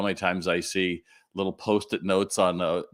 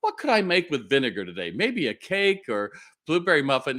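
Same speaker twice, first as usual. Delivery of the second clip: mock-earnest curiosity, pitched higher; playing along; 5 semitones higher than usual. Customer joking with cashier about vinegar, mock-interested. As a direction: play along with pretend interest. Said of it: "we were just playing along".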